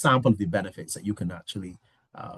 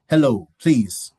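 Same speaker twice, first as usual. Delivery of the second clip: slow, louder robotic phone menu; like a recorded phone system greeting; automated voice; 4 dB louder, much slower than usual. Retold or imitated. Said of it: "like, a, a automated voice".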